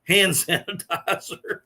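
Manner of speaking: imitating a friend laughing, slow; mild retold laughter as the joke lands; laughing while talking. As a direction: laugh through the last words, drawn out. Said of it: "And Mark starts laughing".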